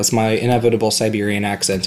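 lightly imitated Siberian-Russian accent in English; a hint of Siberian Russian accent. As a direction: quote him in English with a slight Siberian accent. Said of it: "сибирский такой акцент".

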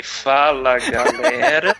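mocking repeat. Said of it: "Repete de novo que eu tô anotando". (imitação zombeteira aguda)

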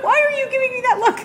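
high squeaky little creature, protesting fast; small creature voice. Acted. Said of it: "a much smaller voice".

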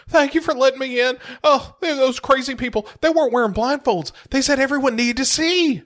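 high, hammed-up tearful wail; mock sobbing. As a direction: blubber gratefully in a put-on cry. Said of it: "He starts sobbing".

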